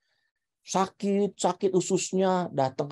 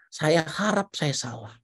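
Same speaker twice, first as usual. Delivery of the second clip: gentle doctor; 4 dB quieter, slower than usual. Retold or imitated. Retold doctor breaking bad news gently.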